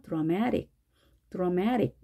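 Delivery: dramatic said slowly, uh in front, stress on the second syllable; slow pronunciation demo. Shown as a demonstration. Teacher modelling dramatic slowly for the class. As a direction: stretch out dramatic, stress moved back. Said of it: "앞에는 어로 발음하고 뒤에는 에로".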